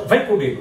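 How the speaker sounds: VEM stressed as a firm command; "Vem" hit hard, an order. Shown as a demonstration. Speaker demonstrates an order to the audience, firm command. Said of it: "Se eu acentuar o verbo e elevar a voz".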